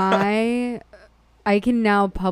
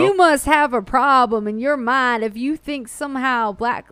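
put-on Ammon Bundy accent; 4 semitones higher than usual. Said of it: "should I do an Ammon Bundy accent".

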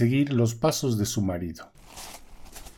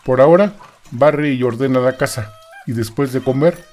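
louder, scolding husband; bossy husband; 4 dB louder than usual. Acted. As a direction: scold her like a gruff husband.

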